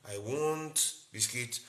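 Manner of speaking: slow, stretched request; normal speech. Shown as a demonstration. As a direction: draw it out slowly. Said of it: "not talking like the normal".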